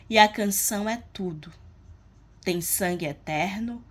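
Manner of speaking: measured poem reading with pauses between verses; poem recitation. Acted. Teacher reading a poem's stanzas to the class, measured recitation. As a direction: recite it verse by verse, letting each line land.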